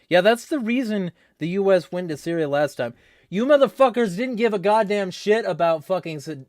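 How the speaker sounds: high, loud outrage; angry rant. Real, not acted. Ranting at those who pushed intervention, angry. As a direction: tear into them indignantly.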